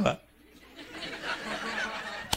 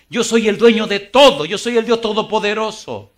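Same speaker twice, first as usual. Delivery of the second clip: a hint of a booming God, loud and high; God's voice; 8 semitones higher, 8 dB louder than usual. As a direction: proclaim it as the almighty. Pastor voices God declaring.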